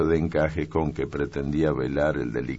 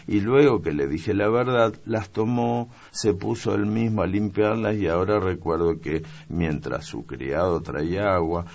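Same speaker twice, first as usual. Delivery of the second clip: put-on higher, eager young maid's story; young maid explaining; 5 semitones higher than usual. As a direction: rattle off the whole explanation keenly. (criada explicando con entusiasmo, voz aguda)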